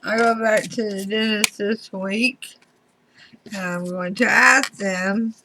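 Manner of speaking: talking with a swollen mouth; words thick from a swollen mouth. Real, not acted. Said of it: "My mouth is swollen".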